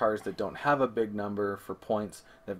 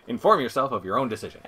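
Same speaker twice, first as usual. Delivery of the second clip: quick, louder self-mocking read through laughter; laughing repeat; 3 semitones higher, 8 dB louder, faster than usual. Real, not acted. Cohost repeats her own garbled phrase to her partner, laughing. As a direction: laugh at your own clumsy wording as you repeat it.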